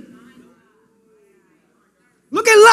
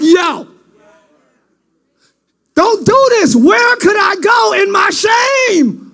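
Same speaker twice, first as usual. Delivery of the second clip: pleading cry. Acted. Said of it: "she cried".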